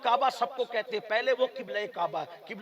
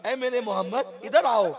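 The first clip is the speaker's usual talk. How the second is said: mother calling; 3 semitones higher, 6 dB louder than usual. Retold or imitated. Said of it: "میری امی مجھے آواز دیتی".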